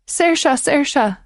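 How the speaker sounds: high anguished calling out; mother crying out. Acted. Mother calling for her missing daughter, anguished cry. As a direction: call her lost daughter desperately. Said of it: "the mother cried out".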